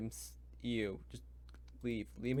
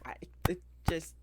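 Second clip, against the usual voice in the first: whispering; 3 semitones higher than usual. Real, not acted. Ranting about druid features, sinking to a whisper. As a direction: drop to a breathy whisper, fed up. Fed-up whisper after loud rant.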